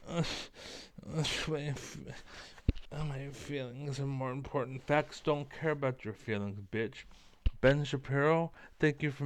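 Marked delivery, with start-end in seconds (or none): 0.1-7.0 mocking whiny crybaby. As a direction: mimic someone whining about their feelings. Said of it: "And then you're like".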